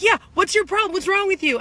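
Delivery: high, loud mock of the man's retort; a mock of the drunk squaring up. Mimicking the drunk man's comeback, high mock voice. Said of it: "he started, like, going like this".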